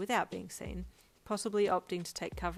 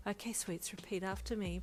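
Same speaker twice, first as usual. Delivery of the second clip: softer, steady and calming; 4 dB quieter than usual. Acted. Brian calming the nervous bride, softly. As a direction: settle her down gently. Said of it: "Brian said calmly".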